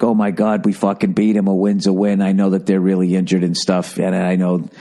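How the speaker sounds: droning imitation of gushing fans; mocking excited fans. Mocking Jet fans gloating over the win, droning imitation. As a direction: run it together in a low, mocking monotone. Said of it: "You're all excited. You're like".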